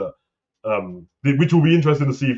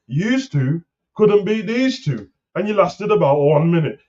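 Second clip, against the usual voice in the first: mock sassy attitude; 6 semitones higher than usual. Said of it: "She came out with a mad attitude".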